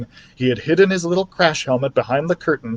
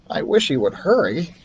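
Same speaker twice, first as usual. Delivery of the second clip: a lightly higher little mouse voice; mouse Ralph; 4 semitones higher than usual. A narrator's reading. Ralph the mouse fretting over the sick boy, little mouse voice. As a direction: voice him like a small anxious mouse.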